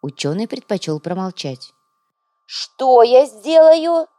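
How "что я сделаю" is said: slow, loud, higher, every word pressed; with pressure. A narrator's reading. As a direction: hammer each word home. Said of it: "с нажимом повторила вдова". (с нажимом, медленно и громко)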